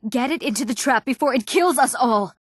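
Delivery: high, urgent command; urgent alarm. Acted. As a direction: order them on as danger closes in. Urgent order with the beast loose.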